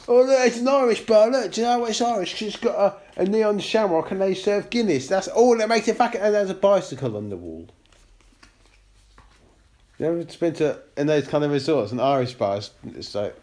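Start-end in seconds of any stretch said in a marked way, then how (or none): 0.1-7.7 higher, excited holiday Brit; British expat voice. Pretend. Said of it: "expat living in Cyprus".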